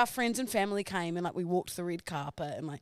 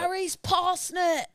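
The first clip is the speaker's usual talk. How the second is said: gleeful shout; 10 semitones higher, 4 dB louder, slower than usual. Real, not acted. Excited recall of TV moment.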